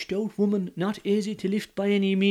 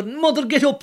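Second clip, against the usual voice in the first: loud, higher call; 10 semitones higher, 5 dB louder than usual. Acted. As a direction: call her up from sleep. Calling his mother.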